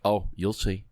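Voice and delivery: a mild mock-knowing, patronising sing-song; condescending tone. A parent talking down to the childless host, mildly condescending. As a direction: lightly imitate smug parents talking down. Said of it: "the condescending tone".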